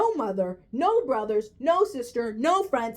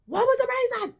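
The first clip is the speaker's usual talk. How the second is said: "What was the reason?" asked again much higher, pleading; exasperated high repeat; 11 semitones higher than usual. Real, not acted. Vlogger demanding why Will was chosen, exasperated. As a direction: push the repeat up in disbelief.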